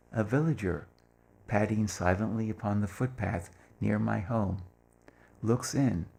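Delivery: lightly voiced, unhurried poem reading. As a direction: let the lines of a love poem unfold. Reads his love poem aloud.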